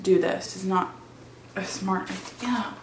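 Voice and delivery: scared horror game streamer. Acted. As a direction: freak out like something's chasing you. Panicked workout intro skit.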